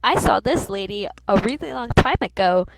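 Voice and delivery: lightly voiced little boy, pitch swooping up; a hint of a small boy asking; lightly put-on little kid voice. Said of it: "Still keeping my little boy voice".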